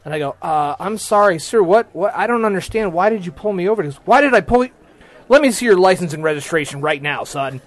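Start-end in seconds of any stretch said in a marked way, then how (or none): 0.4-3.8 higher-pitched, mildly flustered plea; retold confused apology. Confused driver pleading with cop. 4.0-7.6 indignant, mildly raised authority voice; imitating mad cop. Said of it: "he comes up and he's mad".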